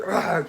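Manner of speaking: caged animal snarl. Retold or imitated. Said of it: "like a caged animal".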